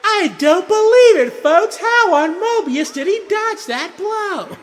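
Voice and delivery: high, loud, excited announcer shout; tournament announcer. Retold or imitated. Announcer calling a dodged blow, high loud shout. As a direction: call the fight at full pitch, stretching the end. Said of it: "the voice of the tournament announcer".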